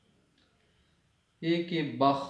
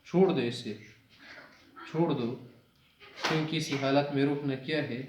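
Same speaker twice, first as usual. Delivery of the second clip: firm command. Retold or imitated. The Prophet telling companions to leave him, firm. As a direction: insist gently but firmly. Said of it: "پیغمبر صلی اللہ علیہ وسلم نے کہا،".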